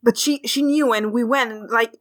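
mildly excited, run-on chatter; Frog, rambling on. Acted. Frog still telling Dawn, rambling on. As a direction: keep gushing past the interruption. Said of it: "Frog just keeps rambling on".

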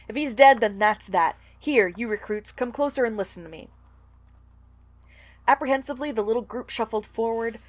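reading a novel aloud with light character voices; story reading. Acted. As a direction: read the passage out to the co-host, lightly acting the rats. Reads the book passage aloud.

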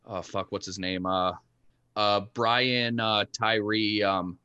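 tinny, lo-fi mic; AM radio sound. Real, not acted. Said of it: "you sound like you're on A M radio right now".

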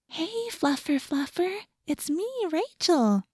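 high, soft coaxing coo; high talking-to-animals voice. A narrator's reading. Rachel coaxing the cat, high and soft. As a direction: reassure a wary cat in a tiny high voice. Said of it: "in a high talking to animals voice".

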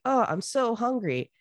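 lightly hammed-up hungry complaint; hungry whine. Esau moaning to his brother for food, mock whine. Esau famished, voiced in retelling.

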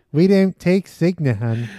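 lightly voiced clerk, laughing; mock insurance clerk. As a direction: play the dismissive clerk. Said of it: "This is the lady that works at".

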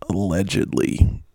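"Allegedly" set apart as if in quotation marks; in quotes. Real, not acted. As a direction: put air quotes round "Allegedly". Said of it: "I'm putting that in quotes".

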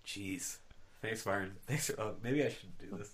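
blocked nose, a bit nasal; tissue up one nostril. Real, not acted. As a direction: speak with one nostril plugged. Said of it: "I'm a little more nasally now".

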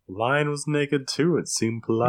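slow, dead-straight deadpan; imitating a dry, unbothered delivery; straight-faced deadpan. Host imitates the show's deadpan one-liner, slowly and straight-faced. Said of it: "It's so straight-faced".

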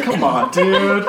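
slow, lazy and laughing; lazy drawl. Retold or imitated. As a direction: drag it out lazily through a laugh. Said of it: "lazily be like".

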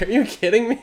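mock outrage at a trivial emergency; incredulous. Husband to wife over Animal Crossing, high incredulous cry. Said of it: "And I'm like".

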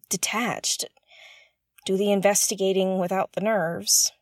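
ordinary delivery

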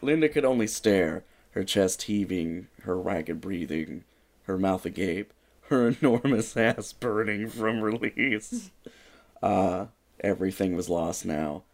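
dramatic storybook narration; story narration. A narrator's reading. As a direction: read it like a mock-epic ending. Reads story ending dramatically.

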